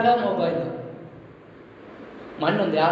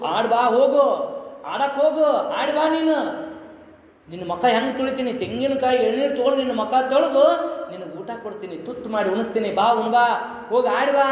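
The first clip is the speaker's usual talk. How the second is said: lightly acted, higher-pitched coaxing mother; mother calling child; 3 semitones higher than usual. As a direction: shoo the child out to play, lightly voiced. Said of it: "ಓಡಿಸ್ತಾ ಇದ್ಲು".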